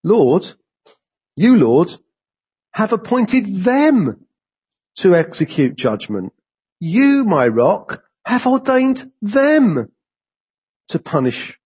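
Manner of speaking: slow reading, leaning on "appointed" and "ordained"; emphatic reading. Shown as a demonstration. Preacher reading Habakkuk aloud to the congregation, slow and emphatic. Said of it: "The emphasis is my emphasis".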